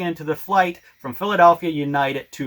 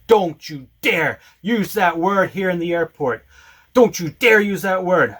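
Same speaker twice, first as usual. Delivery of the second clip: retold angry officer. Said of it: "she got angry".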